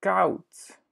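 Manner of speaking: koud said high, "kout" with a falling tone; teacher models koud for the learner; Dutch word koud. Shown as a demonstration. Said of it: "teacher models Dutch word".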